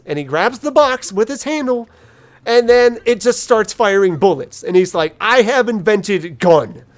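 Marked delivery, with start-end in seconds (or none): 5.2-6.8 slow, proud dim-witted orc with a laugh; a laughing, slowed-down brute voice; proud dumb orc. Retold or imitated. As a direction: announce it like a caveman genius. Orc proudly announcing invention.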